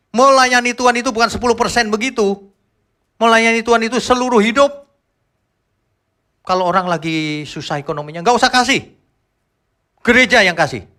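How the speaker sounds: high, loud, emphatic preaching; preaching at full force. Real, not acted. Preacher rebuking tithe-counting, loud and high. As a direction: drive the point home to the church.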